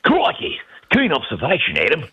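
high-pitched, exaggerated Aussie accent; Steve Irwin Australian impression. Shown as a demonstration. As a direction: throw out a big, squealed Australian accent. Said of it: "I tried to do a little Steve Irwin".

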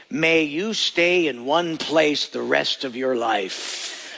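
slow, solemn curse; herder's curse. Retold or imitated. Preacher quoting a shepherd's curse, slow and solemn. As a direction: pronounce it slowly like a curse. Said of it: "here's their curse".

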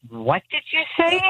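high mock-incredulous question; imitating shocked classmates. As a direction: squeal it like a startled class, half laughing. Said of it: "everybody in the class looked and was like".

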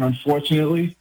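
unfortunately in a real New York accent. Real, not acted. Diehard Jets fan confessing his team on air, New York accent. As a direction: native Brooklyn accent. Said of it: "the way you said "unfortunately".

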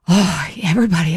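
mock accentuated concern, lightly hammed up; overly caring voice. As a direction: imitate someone laying on the caring a bit thick. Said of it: "overly accentuated, caring voice".

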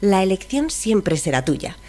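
chipper text to speech voice. Shown as a demonstration. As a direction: read it like a cheerful robot assistant. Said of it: "voz de inteligencia artificial".

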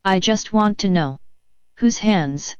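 slow, evenly paced robot complaining; a hint of a robotic Karen. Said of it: "I am Mindy's assistant, A I Karen".

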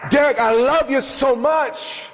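high, slow and aching on love; tender voice of God. Retold or imitated. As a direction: let God's love break through, slowly. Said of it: "His response in my heart was".

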